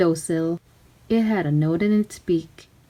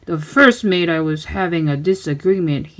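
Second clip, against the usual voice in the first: pirate captain; 3 semitones lower than usual. Acted. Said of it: "he said".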